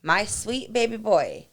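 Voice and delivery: put-on high, slow, sweet little boy voice; a small son doting on his friend; child's fond voice. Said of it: "he goes".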